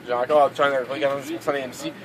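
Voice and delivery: burping again mid-sentence; words broken by a burp. Real, not acted. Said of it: "Ah, encore, excusez".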